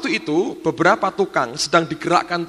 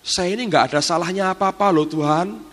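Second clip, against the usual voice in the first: higher, anxious pleading of innocence; a retold servant's worried plea, pitched up; pleading maid; 4 semitones higher than usual. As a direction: beg the Lord, insisting she did nothing wrong. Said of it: "Dia ngomong gini".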